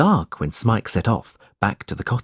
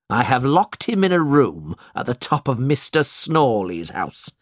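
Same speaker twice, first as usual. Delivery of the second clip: lightly voiced smug villain; a cruel master boasting of his catch; a hint of sly gloating; gloating schoolmaster. Squeers gloating to John.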